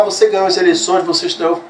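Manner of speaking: quick, high-pitched mock yell; retold cheering shout. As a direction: imitate an excited crowd calling out, without full volume. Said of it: "E começou a gritar".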